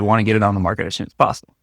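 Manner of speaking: quick, tossed-off quote; hurried. Retold or imitated. Retelling client's wish to list fast, hurried. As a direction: rush through it like a throwaway line. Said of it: "was getting it done fast".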